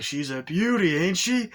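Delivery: high, loud sales pitch; boastful salesman. Retold or imitated. Car salesman to Arnie, hammed-up boasting. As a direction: show it off, hammed-up pride.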